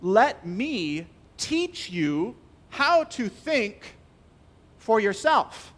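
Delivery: very slow, drawn-out words; said slowly. Shown as a demonstration. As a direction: stretch every word so they notice. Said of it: "I'm gonna say that again slowly".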